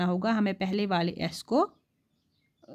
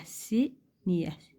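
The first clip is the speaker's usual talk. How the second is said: सीनियस stretched very slowly; teacher's slow demo of सीनियस; slow model word; 3 semitones lower, 4 dB quieter, much slower than usual. Shown as a demonstration. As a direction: spell out सीनियस slowly for the class. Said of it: "देखो सीनियस".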